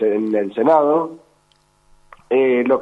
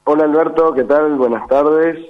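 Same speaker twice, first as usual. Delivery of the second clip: voz de ultratumba. Real, not acted. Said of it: "Qué voz de ultra". (voz ronca de ultratumba)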